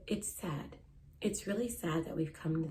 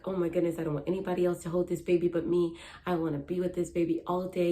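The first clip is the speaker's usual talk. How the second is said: gushing new mom; 4 dB louder, faster than usual. Retold or imitated. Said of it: "You're like".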